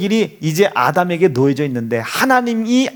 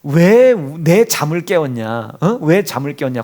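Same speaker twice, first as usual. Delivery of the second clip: stern rebuke as Jesus; 4 semitones lower than usual. Retold or imitated. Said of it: "따끔하게 혼내잖아요".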